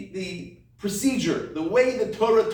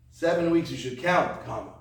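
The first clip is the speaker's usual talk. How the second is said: phrase ends on count with a clear stop; pause after count; 5 semitones lower than usual. Shown as a demonstration. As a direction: mark the comma after count. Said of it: "put the comma in the right place".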